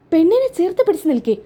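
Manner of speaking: lightly acted astonishment; shocked echo. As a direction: repeat it as if stunned.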